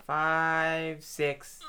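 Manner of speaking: straining, counting reps; doing push ups. Real, not acted. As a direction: count through the effort. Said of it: "Ah, fuck".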